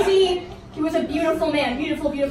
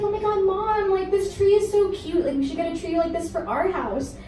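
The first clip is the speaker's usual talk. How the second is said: lightly voiced excited teen girl, a bit higher; teen girls gushing; 4 semitones higher than usual. Teen girls telling mom the tree is cute, gushing. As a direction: gush about the cute tree like a young teen. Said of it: "And they were like".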